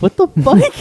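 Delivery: very high, loud mock shock; retold disbelief. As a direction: squeal it in amused disbelief. Retold disbelief at absurd answer.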